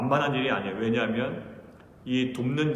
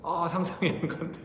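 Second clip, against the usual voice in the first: lightly raised, mock-amazed wife's reply; imitating the wife; 5 semitones higher, 3 dB quieter than usual. Wife answering the kids about his drinking, lightly mimicked. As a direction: tease him as his wife would, a little higher. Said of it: "엄마도 어떤 대답을 했습니다".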